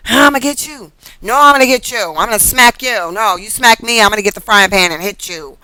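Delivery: lightly voiced squabbling dragons; playful mock threats traded back and forth; bickering dragons. Tarot reader acts out two dragons bickering, playful mock threats.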